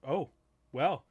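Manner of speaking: bashful. Retold or imitated. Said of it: "he's like".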